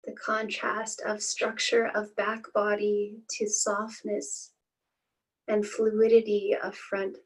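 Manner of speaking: calm, unhurried meditation guiding with long pauses; guided meditation. Acted. Teacher leading listeners through a body scan, calm guided-meditation voice. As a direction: ease listeners into stillness, phrase by spaced phrase.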